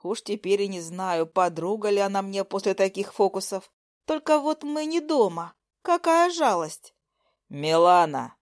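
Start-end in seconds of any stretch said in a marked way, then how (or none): 4.1-6.9 high, slow sugary mockery; higher, slower teasing aimed at the boys on the phone; mocking. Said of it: "Продолжала глумиться". 7.5-8.4 bark. Acted. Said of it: "нетерпеливо гаркнул Лёша".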